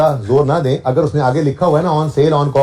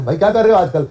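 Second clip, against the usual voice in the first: a light friendly question, a bit higher; lightly voiced friendly question; casual chat; 5 semitones higher than usual. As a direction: play a casual acquaintance asking. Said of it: "मैं और ये भाई बात कर रहे हो".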